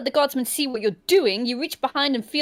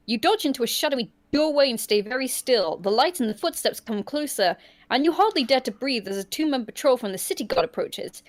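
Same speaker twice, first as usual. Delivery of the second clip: story narration; faster than usual. A narrator's reading. Reads gamebook scene aloud.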